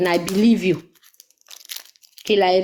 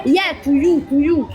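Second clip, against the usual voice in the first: higher, punchy angry retort; angry shouting; 4 semitones higher than usual. Real, not acted. Answering "Are you talking to me?", angry. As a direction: throw it straight back at them, raised pitch. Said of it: "Who's getting you angry that you're just shouting?".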